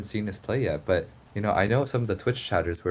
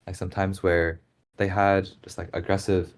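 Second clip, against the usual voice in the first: hiccups. Real, not acted. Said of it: "Sorry, I've still got the hiccups".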